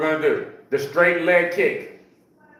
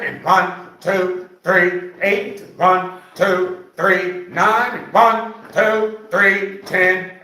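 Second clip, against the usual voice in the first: coach counting reps; much slower than usual. Acted. Coach counting exercise reps aloud.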